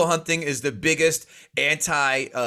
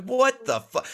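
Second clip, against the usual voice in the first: incredulous; 9 semitones higher, slower than usual. Retold or imitated. Retold reaction to Brooklyn accent.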